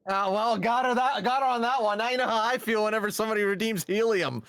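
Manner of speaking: high, giggly voice still laughing; after laughing hard. Real, not acted. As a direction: talk through leftover laughter.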